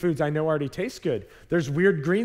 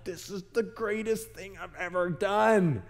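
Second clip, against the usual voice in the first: put-on gushing kids; 3 semitones higher, slower than usual. Kids gushing after trying it.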